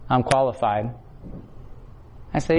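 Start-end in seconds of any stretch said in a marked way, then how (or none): 0.1-1.0 said out loud. Retold or imitated. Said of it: "you gotta say it".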